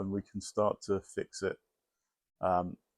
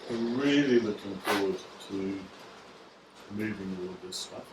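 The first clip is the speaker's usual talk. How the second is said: sarcastic. Real, not acted. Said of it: "Can you tell the sarcasm?".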